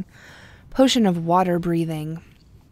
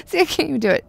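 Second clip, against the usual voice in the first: fumbled tongue twister; 4 dB louder than usual. Shown as a demonstration. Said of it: "I'm terrible at those tongue twisters".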